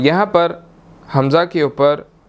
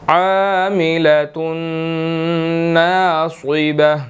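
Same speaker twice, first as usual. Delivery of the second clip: slow, drawn-out tajweed recitation; slow Quranic recitation; much slower than usual. Shown as a demonstration. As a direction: chant each syllable slowly. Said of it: "Quran tajweed recitation".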